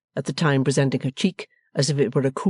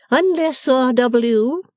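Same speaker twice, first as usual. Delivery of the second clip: higher-pitched, solemn address; stately matron; 11 semitones higher, 5 dB louder, much slower than usual. A narrator's reading. Missus Wilfer addressing her husband, solemnly grand.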